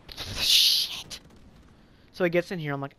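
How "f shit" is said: long drawn-out unvoiced whisper, pushed hard; dreading hissed curse. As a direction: hiss the swear out in dread. Dreading seeing Colin come online.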